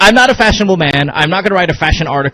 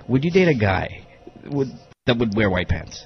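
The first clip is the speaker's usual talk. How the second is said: dramatic whisper; 6 semitones lower, 10 dB quieter than usual. Acted. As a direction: whisper the question like a big reveal. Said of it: "I'm trying to make it dramatic".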